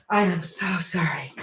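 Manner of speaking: breathy whispered apology; whispering. Real, not acted. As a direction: say it under your breath. Whispered apology after running off.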